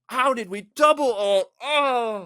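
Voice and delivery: high, drawn-out exasperated mock yell. Player blaming both supports for their double ult, mock yelling. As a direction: yell it at teammates, hammed-up. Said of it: "don't just yell at them and be like".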